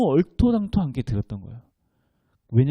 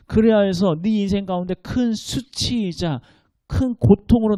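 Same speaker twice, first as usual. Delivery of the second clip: fervent God's voice; 3 semitones higher, 4 dB louder than usual. Pretend. Preacher voicing God, fervent.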